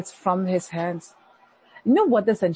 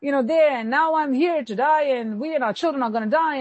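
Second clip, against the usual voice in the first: fast, higher whining complaint; complaining whine; 4 semitones higher, much faster than usual. Retold or imitated. Preacher mimics complaining Israelites in the wilderness, whiny and fast. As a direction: whine like ungrateful wanderers wanting to go back. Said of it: "started complaining and they started saying".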